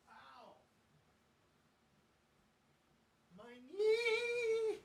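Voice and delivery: sharp cries of pain; tripping and falling. Real, not acted. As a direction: yelp after a hard fall.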